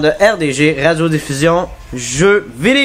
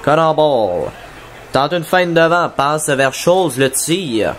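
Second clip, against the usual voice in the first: play-by-play. Acted. Live play-by-play of the game.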